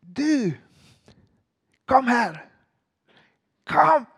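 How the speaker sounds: high, sharp summoning call; teacher calling the guilty twin; stern teacher. Retold or imitated. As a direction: order the child over. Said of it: "och säger".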